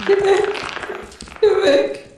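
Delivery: high yell to scare it off; shouting. Real, not acted. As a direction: yell at the creature to leave. Shouting at alien. (laut gerufen)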